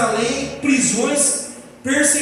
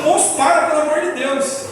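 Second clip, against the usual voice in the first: high, louder mock plea; quase chorando; 6 semitones higher, 4 dB louder than usual. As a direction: beg the driver in hammed-up panic. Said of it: "eu quase chorando". (súplica encenada, quase chorando, em tom agudo)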